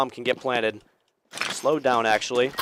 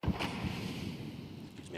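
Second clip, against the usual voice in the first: talking through hiccups; 16 dB quieter, much slower than usual. Real, not acted. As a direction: hiccup breaks the phrase. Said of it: "I've got the hiccups now".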